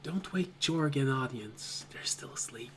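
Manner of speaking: very soft, trailing to breath only; whispered warning. Acted. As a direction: keep it down for the sleepers. Sashay warning not to wake sleepers.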